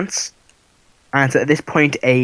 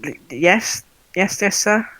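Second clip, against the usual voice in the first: startled stammer; 8 semitones higher, slower than usual. Acted. Startled guard answers snake man.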